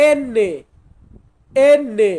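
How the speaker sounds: এন্নে with a long double n; Italian letter name. Shown as a demonstration. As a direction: say এন্নে, the nn held. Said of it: "এটাকে আমরা বলবো". (Italian উচ্চারণে এন্নে)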